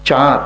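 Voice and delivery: চাঁদ with full nasal vowel; চাঁদ নাসিক্য উচ্চারণে; nasalised chaand. Shown as a demonstration. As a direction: sound the chandrabindu in চাঁদ. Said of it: "তখন বলতে হবে".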